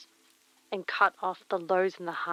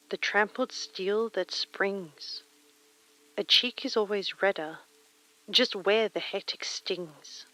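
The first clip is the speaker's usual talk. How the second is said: poem reading; 3 dB louder than usual. Acted. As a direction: read it like a poem, each line weighed. Reads Dickinson poem aloud.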